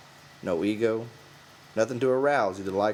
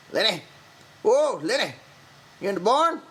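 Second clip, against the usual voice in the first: louder, higher call across the barn; 13 semitones higher, 6 dB louder than usual. A narrator's reading. George calling for Lenny through the barn. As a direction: shout for Lenny from a distance. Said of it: "a voice called".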